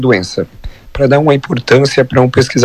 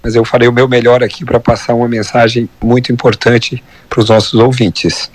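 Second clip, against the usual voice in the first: hoarse from laryngitis. Real, not acted. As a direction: speak through a hoarse, sore throat. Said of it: "Peço perdão pela voz rouca".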